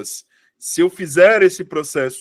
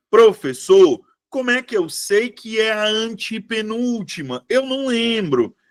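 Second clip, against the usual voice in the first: lightly acted pupil's complaint, pitched higher; imitated puzzled student; 5 semitones higher than usual. Teacher voicing a student who can't remember, mock puzzled.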